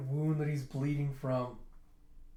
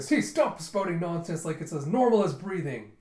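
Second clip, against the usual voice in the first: louder exasperated telling-off, lightly acted; mock scolding; 3 semitones higher, 5 dB louder than usual. Friends scolding the charmer, mock exasperation. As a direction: cut off the flatterer in mock irritation.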